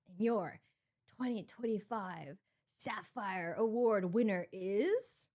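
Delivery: slow, measured presenter delivery; award announcement. Retold or imitated. Presenter announcing the Sapphire Award winner, slow and suspenseful.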